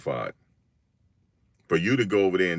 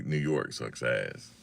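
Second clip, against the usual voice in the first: slow mock taunt; 6 semitones lower, 7 dB quieter, slower than usual. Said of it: "He just wanted to say".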